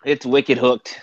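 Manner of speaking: put-on thick Boston accent on wicked hooked; broad Boston, wicked hooked. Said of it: "That's my Bo-, Boston accent".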